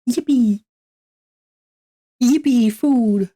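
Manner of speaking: high, loud yippee; excited cheer. Real, not acted. Cheering about getting food.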